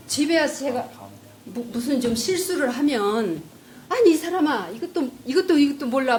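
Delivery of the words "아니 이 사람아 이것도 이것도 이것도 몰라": husband snapping. Retold or imitated. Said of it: "막 이러면서 성질을 내는 거예요".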